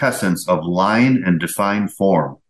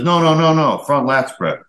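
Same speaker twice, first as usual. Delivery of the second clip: retold judge's high, insistent objection; urgent interruption; 7 semitones higher than usual. Head judge stops the bodybuilder mid-pose, urgent and high. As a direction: cut in sharply, pitched high.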